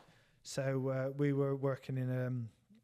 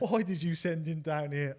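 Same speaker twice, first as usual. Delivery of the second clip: laughing through the quote; 2 semitones higher, 6 dB louder than usual. Retold or imitated. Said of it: "He said".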